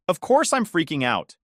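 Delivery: shouted. Acted. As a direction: throw it back at her loudly. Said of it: "I shouted".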